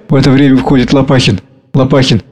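usual speaking voice

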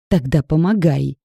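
loud half-shouted demand; loud, exasperated near-shout. A narrator's reading. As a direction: nearly yell it at him. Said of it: "почти прокричала Маша".

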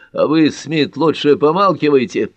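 barked. A narrator's reading. Carter silencing Ellery, barking. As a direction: bark him into silence. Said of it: "рявкнул Картер".

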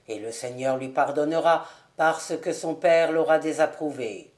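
measured minister's voice, pitched low; solemn scripture reading. Acted. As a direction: read the holy text gravely. (lecture biblique grave et solennelle)

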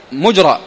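مجرى pronounced "mujra"; short u after the mim in مجرى; damma on the mim. Shown as a demonstration. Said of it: "بضم الميم".

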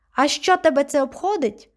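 sharp, high and loud snap back; sharp retort. Acted. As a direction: bite back at her grandmother. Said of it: "гостро відповіла онука".

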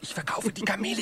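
quick hushed whisper; a buyer slipping off, whispering; whispered aside. Acted. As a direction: rush it out under your breath.

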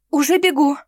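high, loud eager squeak; squeal. A narrator's reading. Witch jumping out of bed to obey, squealing. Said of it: "пискнула она".

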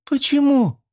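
put-on very high, loud girlish cry; alarmed girl. A narrator's reading. Schoolgirl shrieks down to Fedka, very high and loud. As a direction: shriek the question.

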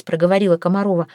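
plain reading voice

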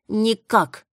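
"Никак!" snapped high and loud; cut off sharply. A narrator's reading. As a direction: bite off "Никак!" curtly. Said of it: "отрезала Тресси". (резко отрезать "Никак!")

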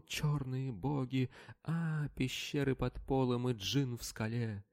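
high, slow, strange wailing babble; terrified wail. A narrator's reading. Frightened slave babbles about demons below, slow and wailing. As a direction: drag the words out in horror. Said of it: "выл он".

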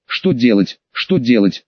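low despairing lament, each question sinking; despairing wail. A narrator's reading. Trapped man lamenting to himself, low despair. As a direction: moan it like a hopeless man. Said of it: "начал в отчаянии раскачиваться и попавшим в капкан волком выть".

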